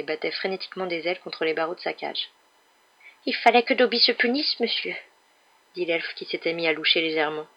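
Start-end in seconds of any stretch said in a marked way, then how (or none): 3.3-4.9 high little servant voice; earnest small creature, pitched up; house-elf, contrite. Acted. Elf explaining his self-punishment, high earnest voice.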